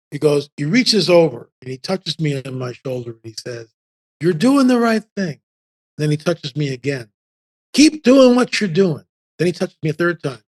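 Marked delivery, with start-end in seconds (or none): 4.2-5.4 higher, deliberate reassurance; imitating encouraging stranger. Voices the stranger's solemn encouragement. 7.7-9.0 high, slow, emphatic encouragement; imitating encouraging stranger. Voices the stranger's repeated encouragement.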